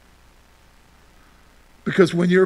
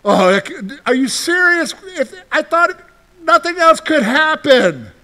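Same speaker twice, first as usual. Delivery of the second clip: a lightly acted high disbelieving groan; a hint of exasperated complaint at bad news; mock exasperation; 5 semitones higher than usual. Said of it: "you're like".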